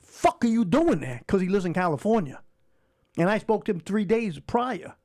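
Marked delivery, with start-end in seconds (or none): 0.0-1.2 high, slow, loud retold yell of disbelief; disbelieving shout. On the phone to his brother, a high shocked yell. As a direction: yell it, stunned he's there. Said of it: "I'm like".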